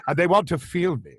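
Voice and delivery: grandiose, measured actor's oration; Tom Baker. Acted. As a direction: impersonate a star revelling in being worshipped. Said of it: "have you done yours to Tom Baker".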